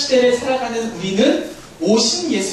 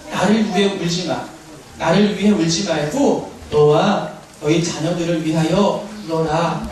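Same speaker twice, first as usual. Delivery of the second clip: voice of Jesus; 5 semitones lower than usual. Acted. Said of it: "뭐라고 말씀하시냐면".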